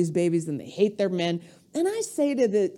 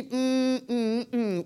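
mimed wordless humming; 4 dB quieter, much slower than usual. Retold or imitated. Mimics Kardashian not speaking.

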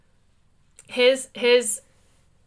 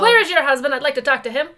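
sleazy salesman; 4 dB louder than usual. Acted. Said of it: "my used car salesman voice".

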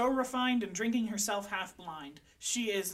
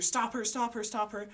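calling out; 3 semitones higher, 3 dB louder than usual. Acted. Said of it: "You're calling after your officer".

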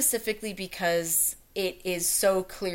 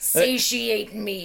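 slow menacing villain; slower than usual. Pretend. Villain line suggestion.

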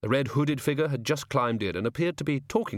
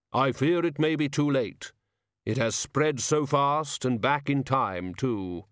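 slow, lightly voiced ponderous figure; a touch of grave foreboding; measured, deliberate worry; solemn hooded figure, gloomy; 3 semitones higher, slower than usual.

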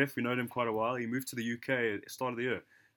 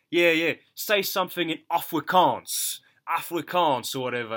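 excited urging; 5 semitones higher, 8 dB louder than usual. Retold or imitated. Gents retold urging him.

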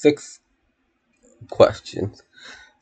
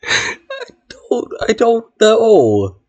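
laughing; 10 semitones higher, slower than usual. Real, not acted. Laughing helplessly.

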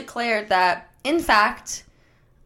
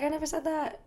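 mock denial; 7 semitones higher, 10 dB quieter, much faster than usual. Daughter denying her remark to judge.

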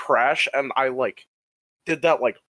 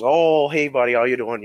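put-on drunk Ethan; 5 dB louder than usual. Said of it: "Drunk Ethan's".

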